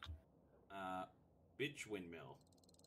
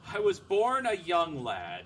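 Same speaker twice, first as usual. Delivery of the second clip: booming storyteller voice; 3 semitones higher, 7 dB louder than usual. Pretend. Hammy announcing.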